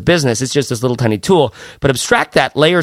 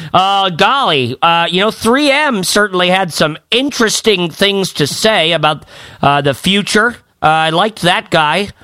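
put-on higher, slow goofy wide-eyed kid voice that climbs higher as it goes; naive college freshman; 4 semitones higher than usual. Mocking his co-host as a wide-eyed eighteen-year-old at the major fair. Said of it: "just like".

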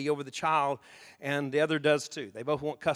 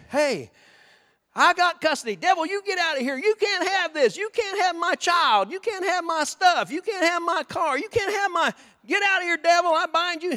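much higher, loud rebuking shout; shouting at the devil; 11 semitones higher, 6 dB louder than usual. Retold or imitated. Believer shouting down the devil, high loud rebuke. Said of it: "Sometimes we say".

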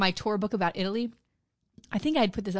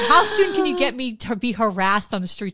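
laughing through an eager, louder quote; laughing eagerness; 5 dB louder than usual. Retold or imitated. Retelling her eager reaction, laughing. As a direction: laugh while gushing. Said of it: "I was like".

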